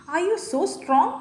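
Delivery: high, loud taunting bear; mocking bear. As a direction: tease the girl as a scornful bear. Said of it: "That is the bear". (പരിഹസിക്കുന്ന കരടി)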